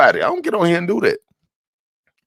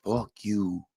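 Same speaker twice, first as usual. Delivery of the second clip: mock cuss; 8 semitones lower, 11 dB quieter than usual. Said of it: "go over there and say".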